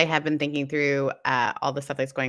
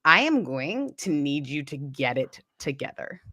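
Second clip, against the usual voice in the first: firm demand. Retold or imitated. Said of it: "for me to be like".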